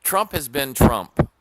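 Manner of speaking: loud and slow, each word hammered; forceful slow declaration; slow emphatic. Real, not acted. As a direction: pound the words out slowly.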